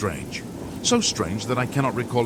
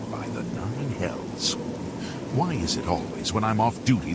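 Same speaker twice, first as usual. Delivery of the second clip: testy registrar put out at being bothered; exasperated, pitch climbing into the complaint; irritated official; 2 semitones higher than usual. Acted. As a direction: grumble like an off-duty clerk pestered by the public. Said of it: "with a distinct sense of irritation".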